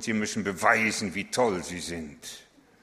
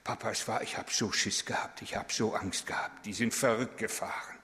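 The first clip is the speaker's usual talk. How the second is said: scared son's whisper; 4 dB quieter than usual. Retold or imitated. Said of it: "und sagte".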